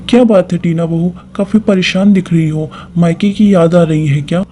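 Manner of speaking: a mother-in-law ribbing a homesick bride; teasing mother-in-law. Acted. Mother-in-law questions distracted bride. (बहू को छेड़ती सास, ऊँची आवाज़)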